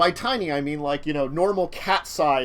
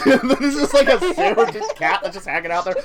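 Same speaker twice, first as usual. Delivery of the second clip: talking through laughter; laughing; 5 semitones higher, 6 dB louder than usual. Real, not acted. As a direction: giggle through the words.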